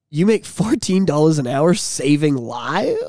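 slow, low incredulous question; retold disbelief. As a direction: drag it out in deadpan disbelief.

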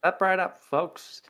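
high carnival barker call; chirpy trade show pitch. Pretend. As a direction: hawk it like a sideshow barker. Joining the barker bit.

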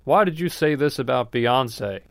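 slow, drawn-out mock protest; mock backlash. Comic voicing backlash over Beyonce, mock protest. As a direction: imitate fans objecting, dragging out the words. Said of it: "people are like".

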